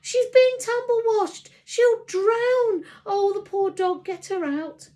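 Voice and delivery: high, loud frantic pleading; panicked mum begging firemen. A narrator's reading. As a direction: beg in a panic for the dog. Mum panics over dog.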